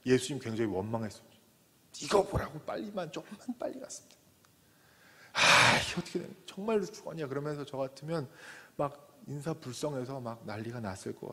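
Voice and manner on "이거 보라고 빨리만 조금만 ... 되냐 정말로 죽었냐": high, loud desperate cries of a father; a grieving father shouting, higher and louder; frantic yelling. Retold or imitated. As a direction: wail it at Jesus in despair. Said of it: "소리소리 지르면서".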